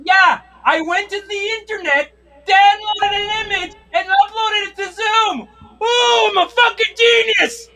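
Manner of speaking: self-satisfied sarcastic brag; smug mock boast. Mocking people who use Zoom backgrounds, smug sarcasm. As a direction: play the proud tech genius.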